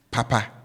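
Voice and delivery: "papa" with both syllables held high. Shown as a demonstration. Teacher showing learners the first Twi word, high-high tone on "papa". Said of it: "as against the first one".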